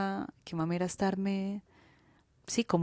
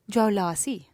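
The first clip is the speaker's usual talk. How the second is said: affected put-on voice; 5 dB louder than usual. Shown as a demonstration. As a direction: sound like you're trying to be cool. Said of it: "Esta era mi tonalidad de voz, muy impostada".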